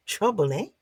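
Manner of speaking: high, curious trickster monkey; sly monkey voice. Acted. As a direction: tease the word like a mischievous monkey. Monkey curious about spilled liquid.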